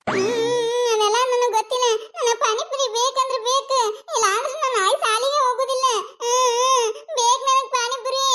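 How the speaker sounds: put-on a little girl sobbing and pleading for a treat; sulky child crying for panipuri; whiny crying child. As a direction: whimper and wail through a tantrum, slow. Granddaughter throws a crying tantrum.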